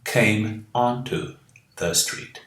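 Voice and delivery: slow model phrase. Shown as a demonstration. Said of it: "ele diria".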